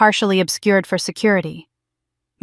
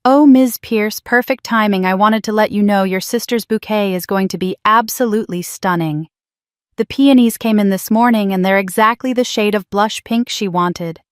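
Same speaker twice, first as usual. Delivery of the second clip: smiling florist. Acted. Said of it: "I could hear the smile in her voice".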